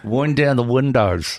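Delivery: hammy, badly faked Kiwi accent. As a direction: put on a rough New Zealand accent. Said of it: "that's a really shit Kiwi accent".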